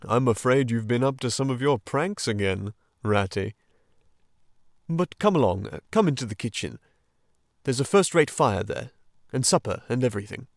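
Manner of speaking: a lightly voiced fatherly Badger; gently scold, then welcome; paternal. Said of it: "he said paternally".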